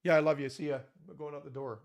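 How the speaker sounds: quick throwaway, fading out the door; offhand. Retold or imitated. Husband rushing out the door, careless and offhand. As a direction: toss it off while leaving. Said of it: "big difference on how we communicate".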